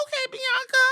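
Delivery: thrilled fan cheer; hyped cheer. Retold or imitated. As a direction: hype her up like a fan. Cheering Bianca's entrance.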